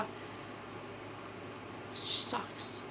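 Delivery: fighting tears. Real, not acted. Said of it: "trying not to cry".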